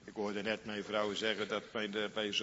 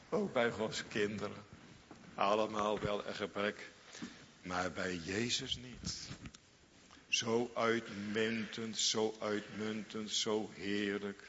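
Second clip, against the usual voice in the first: ordinary delivery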